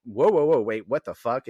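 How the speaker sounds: loud startled whoa, then back down; mock alarmed Spike. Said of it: "Spike is like".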